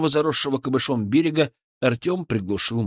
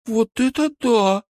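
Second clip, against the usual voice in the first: high, drawn-out wow; slow, high-pitched exclamation of delight; admiring; 11 semitones higher, 4 dB louder, slower than usual. Acted. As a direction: marvel loudly at the catch. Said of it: "восхитилась Кристина".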